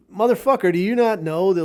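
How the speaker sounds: a hammed-up angry yell at a country; exasperated outburst. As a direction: blast him like you're fed up. Ranting retort to Colombia.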